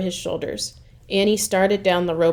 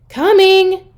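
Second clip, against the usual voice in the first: much higher, louder shout; shouted reply; 12 semitones higher, 10 dB louder than usual. Acted. Annie shouts back to Mom again. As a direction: yell back eagerly. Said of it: "Annie shouted again".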